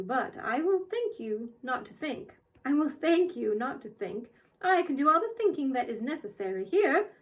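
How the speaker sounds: put-on a quiet menace from a little old woman; stern old woman, lightly voiced; soft, terrible voice. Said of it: "in her soft, terrible voice".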